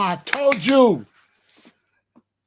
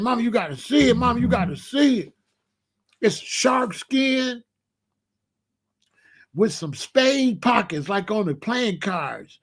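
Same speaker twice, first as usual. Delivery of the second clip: high, eager pitch, slowing over the details; excited pleading kid; 4 semitones higher than usual. Retold or imitated. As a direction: sell mama on the suit. Boy pleading, describing the suit.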